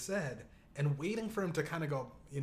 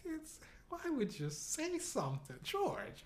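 incredulous squeak; 10 semitones higher, 7 dB quieter than usual. Retold or imitated. Speaker incredulous at George.

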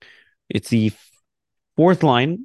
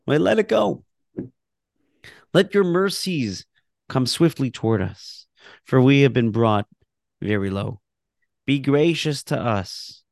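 prayer reading. Acted. Teacher reciting the prayer text for the class, earnest and measured. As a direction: read each plea as a heartfelt petition.

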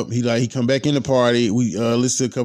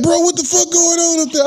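very high, indignant imitation; high-pitched, hammed-up outrage; mock alarm; 3 dB louder than usual. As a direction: imitate a rattled friend yelping in protest. Voices man thrown about on truck.

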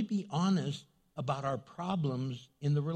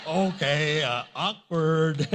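retold awkwardness; 7 dB louder, slower than usual. Reacts to awkward phone mix-up.

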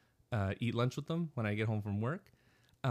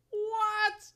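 high loud mock yell of a hard-of-hearing dad; dad shouting what in a packed theater; shouted what; 5 dB louder than usual. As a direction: yell it like a deaf old man. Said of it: "he's like".

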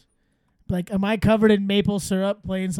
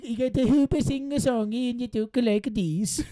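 hammed-up vague European accent; a light mock Dutch lilt; Belgian accent; 3 semitones higher than usual. Asked for his best Belgium accent, light mock European accent. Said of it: "best Belgium accent".

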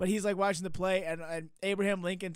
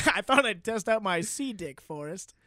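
Lieutenant Dan; 4 dB louder than usual. Retold or imitated. Lieutenant Dan greeting Forrest in a parody, lightly imitated. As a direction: parody of a favorite movie quote. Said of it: "we're like".

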